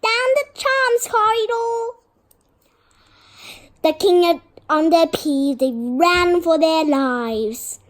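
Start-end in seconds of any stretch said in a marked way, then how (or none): 0.0-2.0 very high, loud, fast alarm cry; piercing poltergeist shout; bellow. A narrator's reading. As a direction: bellow it like a shrieking tattletale. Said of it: "Peeves bellowed".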